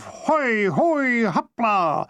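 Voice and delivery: high ringing cry of effort; triumphant shout. A narrator's reading. Athlete at the bar, triumphant high shout. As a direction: hurl it out as he jumps. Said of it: "with a triumphant shout of".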